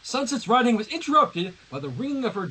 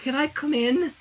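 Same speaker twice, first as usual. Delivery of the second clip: cold and shivering; 8 semitones higher than usual. Acted. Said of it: "her teeth chattering".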